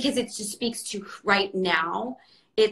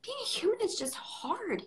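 higher, softened, close to tears; real tearful voice; 4 semitones higher than usual. Real, not acted. Host moved by a quote about life being hard, tearful. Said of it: "I'm crying right now".

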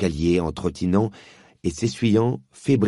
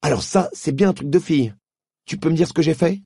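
put-on much higher, louder, scornful boy; boy scoffing at a girl's demand; indignant boy; 10 semitones higher, 4 dB louder than usual. Diggory indignant.

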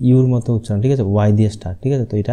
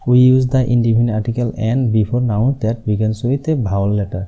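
slow, word-by-word rule reading; slow dictation; much slower than usual. Shown as a demonstration. Teacher dictating the silent H rule slowly. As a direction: dictate it so students can write. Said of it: "আহ".

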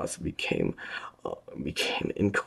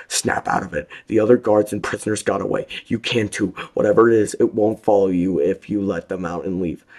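loud, higher, fast urging; Will screaming at the frozen guard; 7 semitones higher, 10 dB louder than usual. A narrator's reading. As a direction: scream to wake him up. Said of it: "Will screamed at him".

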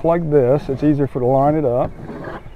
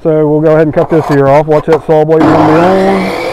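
raised voice over a running saw; shouting over table saw; 5 dB louder than usual. Real, not acted. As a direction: call it out over the saw noise.

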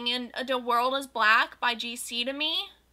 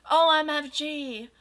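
bright, louder gasp of delight; excited; 4 semitones higher, 6 dB louder than usual. Acted. Reader voicing a starstruck goth girl, excited. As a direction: gush it like a starstruck fan. Narrator gasps at singing.

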